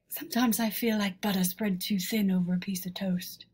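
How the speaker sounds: whispered, unvoiced, like a sad confession; mock-dramatic whisper. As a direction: breathe the caption out as a hammed-up secret. Reads caption in a hush.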